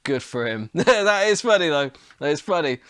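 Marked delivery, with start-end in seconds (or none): 0.7-1.7 laughing. Real, not acted. Laughing at the meme.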